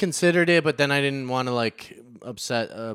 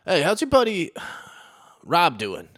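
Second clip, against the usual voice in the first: mock chipper question; 7 semitones higher, slower than usual. Retold Brendan asking about co-host.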